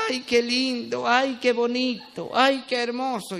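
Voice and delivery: slow, cooing mock adoration; mock gushing wife. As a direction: drag out each ay like a lovestruck bride. Wife gushing while courting. (esposa enamorada, arrullo lento y burlón)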